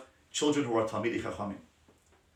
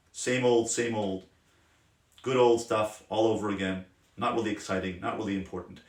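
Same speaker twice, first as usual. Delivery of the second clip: low, unenthusiastic recital; jaded, bored attitude; 3 semitones lower than usual. Acted. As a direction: sound mildly fed up with the same routine. Voicing a bored, negative attitude.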